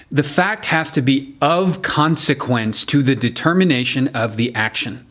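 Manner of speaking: weight on "of consequence to the determination"; deliberate courtroom emphasis on "of consequence"; stress on of consequence. Shown as a demonstration. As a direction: lean hard into "of consequence", word by word. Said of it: "place your emphasis on".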